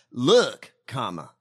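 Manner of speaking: reading the punctuation aloud, punchy look; mock instruction. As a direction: quote it like a silly rule. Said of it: "before each question say".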